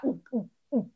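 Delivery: soft gulping ooh sounds; quiet throaty ooh-ooh gulps; imitated gulping. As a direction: mimic a creature swallowing bugs. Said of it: "ooh noise".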